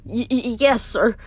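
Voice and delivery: scared stuttering yes; nervous stammer. Acted.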